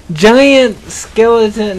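slow, loud "Giant skeleton", feeling out each word; careful retry. Real, not acted. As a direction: sound out "Giant skeleton" slowly to get it right. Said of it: "How did I say it?".

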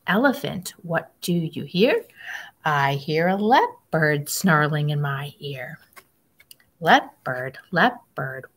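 sing-song picture book reading; reading to children. Acted. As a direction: read it like storytime for little kids. Reads picture book aloud.

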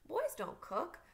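put-on high, amused child's protest; giggly disbelief. A narrator's reading. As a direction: scoff lightly, on the edge of a giggle. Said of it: "I giggled at the thought".

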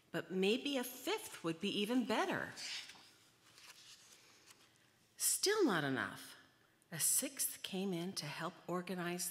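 lively, swooping read-aloud voice; animated storybook reading. A narrator's reading. Reader telling children about the multiplying Leos, animated storytelling. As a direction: play up each new turn for young listeners. Reads picture book to children.

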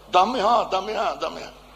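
insistent Tuscan with swallowed consonants; thick Tuscan. Retold or imitated. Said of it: "parla il toscano un pochino, eh, carcato".

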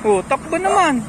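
squeaky praising a dog. Real, not acted. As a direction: coo at the dogs playfully. Cooing at dogs running.

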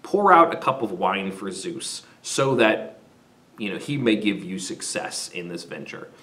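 nurturing wife urging a prayer, softly; gentle plea. Retold or imitated. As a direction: coax him tenderly. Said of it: "she comes to her husband again and says".

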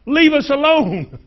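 high, loud shriek of a cornered demon; a preacher voicing the demon's frantic shriek at Jesus. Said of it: "and shrieks out".

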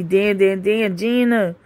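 lightly voiced sitcom catchphrase; Martin voice. Reading a comment aloud to viewers in a light Martin catchphrase voice. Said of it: "Martin voice".

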